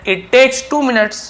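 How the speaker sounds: high, unhurried teacher read. Shown as a demonstration. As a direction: read it out slowly for learners to copy. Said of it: "teacher dictating a model sentence".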